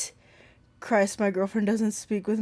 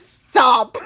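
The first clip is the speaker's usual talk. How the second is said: laughing; 10 semitones higher, 6 dB louder than usual. Real, not acted. Still laughing.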